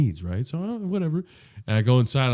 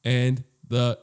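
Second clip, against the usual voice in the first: recorded message. Retold or imitated. Voice message telling customer what is sold out, measured. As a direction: space the words out like a recording. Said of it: "like, voice message memo".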